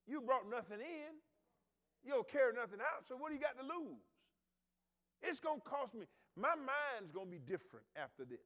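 loud, high climactic preaching; full-force preaching. Acted. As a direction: preach it out to the back pews.

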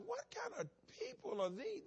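high, outraged cry of "What kind of people are these?"; an outraged visitor crying out at the dirty church; mock outrage.

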